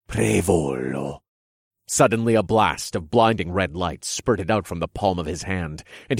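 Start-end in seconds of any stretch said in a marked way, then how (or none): 0.1-1.2 spell incantation. Acted. King casts spell.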